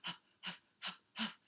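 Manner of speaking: quiet jogging breaths; soft huffing. Acted. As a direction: puff softly as if running. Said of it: "started to run in place".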